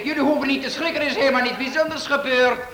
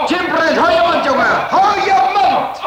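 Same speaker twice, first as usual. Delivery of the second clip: sharp rebuke; 3 semitones higher than usual. Acted. Boss silences joking employee.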